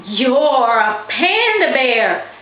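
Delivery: slow, shaky high voice of fear; quivering voice. A narrator's reading. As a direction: let the words tremble slowly. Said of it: "with a quiver in her voice".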